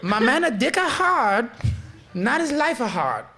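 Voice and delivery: high, put-on Asian accent; mock Asian accent. Imitating the Asian lady's quote to friends in a mock Asian accent. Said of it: "I'm doing the accent".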